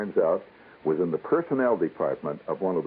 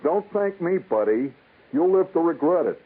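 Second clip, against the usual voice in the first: higher, louder sour warning; grumpy elevator man; 11 semitones higher, 3 dB louder than usual. Retold or imitated. Elevator man warns the new kid, sour and louder. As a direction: warn him off with a sneer.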